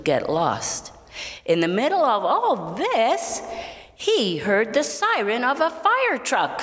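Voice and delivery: put-on lively read-aloud narration for children; storytelling voice. A narrator's reading. Storyteller reading to children, in an expressive narrating voice. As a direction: tell it like a bedtime story with gentle rises.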